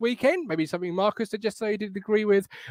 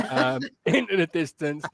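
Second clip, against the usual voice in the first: laughing. Real, not acted. Host laughing at guest.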